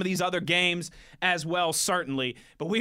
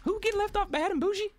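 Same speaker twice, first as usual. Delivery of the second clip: put-on voice; 11 semitones higher than usual. Joking banter, put-on voice.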